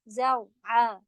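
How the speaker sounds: زرعا with a heavy ر. Shown as a demonstration. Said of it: "را heavy ہوگا". (زرعا میں را بھاری)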